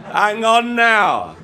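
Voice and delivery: drawn-out laughing hang on now. Real, not acted. Comic to the crowd, slow laughing hang on. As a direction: stretch it out, laughing. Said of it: "punchline reaction".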